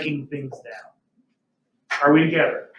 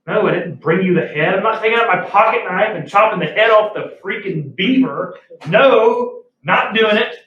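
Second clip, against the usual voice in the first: mock indignant protest, building louder; indignant refusal; 3 dB louder than usual. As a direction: refuse the boss, hammed-up and emphatic. Acted refusal to boss's demand.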